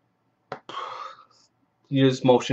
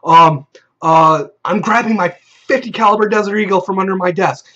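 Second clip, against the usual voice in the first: mock panicked outburst, voice pitched up; retold panic; 4 semitones higher, 3 dB louder than usual. Player panicking at the storyteller, acted-out panic. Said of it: "he's just panicking".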